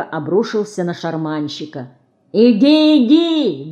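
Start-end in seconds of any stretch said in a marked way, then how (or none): 2.3-3.7 high, raised urging; driving him off. A narrator's reading. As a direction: shoo the old man off loudly. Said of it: "гнал он старика".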